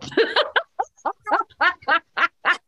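long, high rolling laugh, breath held then gulped; demo laughter breaths. Shown as a demonstration. Teacher demonstrating laughter breaths to the class, laughing long. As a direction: laugh until you run out of air. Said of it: "So watch me for just a second".

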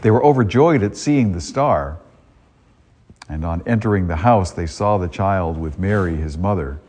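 solemn liturgical proclamation; Gospel reading. Acted. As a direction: read it like scripture at Mass.

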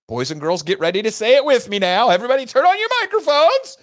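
high, loud, fired-up call to the crowd; rousing call. Real, not acted. Host rallies his audience to chant along, loud and excited. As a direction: whip the listeners up to join in.

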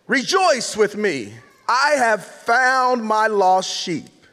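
slow, measured Bible reading; scripture reading. Acted. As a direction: read the verses out slowly and solemnly. Reads scripture aloud.

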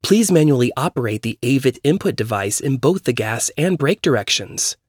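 lightly voiced car computer; even automated instruction prompt; robot voice. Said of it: "a robotic woman's voice spoke".

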